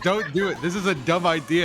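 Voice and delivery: imitating scared kid. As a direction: beg like a frightened seven-year-old. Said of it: "And I started crying".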